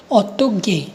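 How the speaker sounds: last syllable of ऑटो गे between a ग and a क. Shown as a demonstration. Teacher demonstrating the Korean sound, गे between G and K. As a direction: say गे as a half-voiced G sliding towards K. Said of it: "ग और क के बीच में".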